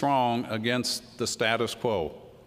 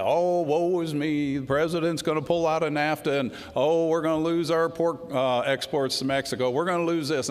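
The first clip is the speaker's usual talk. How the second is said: mock whining; 2 semitones higher than usual. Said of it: "people whining and complaining about nafta".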